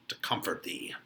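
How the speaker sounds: soft unvoiced whisper; whispered comfort. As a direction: breathe it gently. Friar reply whispered.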